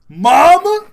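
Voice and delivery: high, loud cartoon Mario squeal. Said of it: "the animated Mario episodes".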